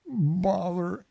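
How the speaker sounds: vexed bear stuck in a jar; stuck Pooh. A narrator's reading. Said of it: "he said inside the jar".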